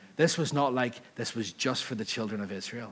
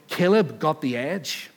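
louder, higher, rising insistence; fervent reply; 4 semitones higher, 7 dB louder than usual. Retold or imitated. The woman answering Jesus, louder and higher with fervour. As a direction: press the claim with growing fire.

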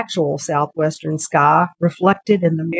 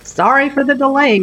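cab driver voice; 8 semitones higher than usual. Acted. Cab driver Rita speaks.

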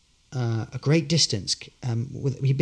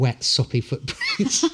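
laughing; slower than usual. Real, not acted. Laughing at own embarrassment.

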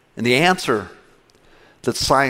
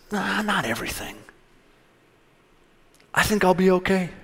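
casual Eve; 4 semitones higher, 4 dB quieter than usual. Acted. Preacher voices Eve answering God.

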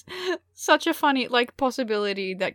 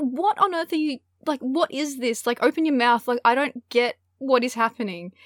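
higher-pitched, incredulous retort; baffled exasperation; 5 semitones higher, 3 dB louder than usual. Retold or imitated. Baffled listener to a roommate she cannot understand, exasperated. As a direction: act out being totally lost, exasperated.

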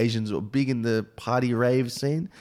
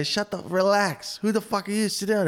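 higher-pitched, mock-indignant rebuke; retold telling-off; 8 semitones higher than usual. Comic imitating Asians in the crowd rebuking a woman, mock indignant. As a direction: put a heckler in her place, lightly acted.

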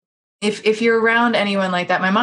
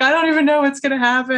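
higher, fast, fretful imitation of a crying friend; mock-distressed friend, rushed and high; imitating upset friend; 6 semitones higher, faster than usual. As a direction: play a friend in a tizzy, without real tears. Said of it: "so she's still crying".

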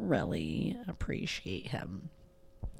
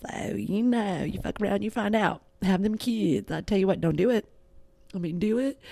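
loud, higher half-joking yell; mock shouted warning; 4 semitones higher, 6 dB louder than usual. Mom warning listeners about having kids, in a loud mock yell. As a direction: bellow the warning with a wink.

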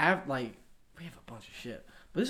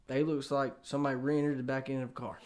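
hushed, unvoiced aside; a secret dig whispered; 3 semitones lower, 8 dB quieter than usual. Real, not acted. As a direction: whisper it so only friends hear. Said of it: "unvoiced whisper".

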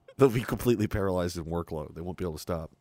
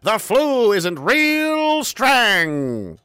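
mock doctor voice; 13 semitones higher, 9 dB louder, much slower than usual. Mocking a doctor character.

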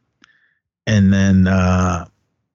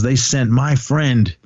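retold rant, slow and pitched up; mildly indignant, drawn-out movie quote; going off; 5 semitones higher than usual. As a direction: imitate an aggrieved man, word by word. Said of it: "he was just going off".

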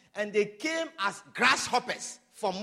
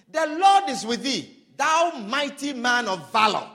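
proclaiming; 6 dB louder than usual. Acted. Angel greets Gideon, proclaimed.

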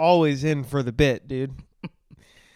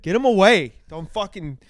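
high, worked-up rant of revulsion; hammed-up disgust; 5 semitones higher, 5 dB louder than usual. Comic telling co-host he hates feet, hammed-up disgust. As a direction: push it away, grossed out.

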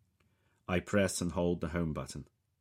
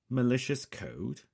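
high, louder startled query; suddenly wide awake; 8 semitones higher, 6 dB louder than usual. A narrator's reading. Voice on the phone hears of malicious code, suddenly awake. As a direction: question it, suddenly alert, pitch raised. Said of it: "suddenly sounding much more awake".

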